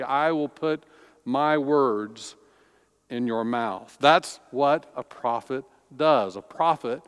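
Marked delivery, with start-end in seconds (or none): 0.0-4.0 "my words" set off by short pauses; stress on WORDS. Acted. Preacher retelling God's promise to Jeremiah, stress on "words". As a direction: pause before "my words" and again after it. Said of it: "the stress on the words".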